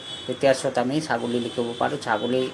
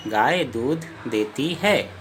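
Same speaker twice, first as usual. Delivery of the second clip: slow; slower than usual. Shown as a demonstration. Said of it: "वाक्य क्या है?".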